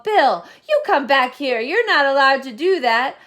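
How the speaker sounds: loud call from a window. Acted. Sally calls from the window, loud scolding call. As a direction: call him back sharply.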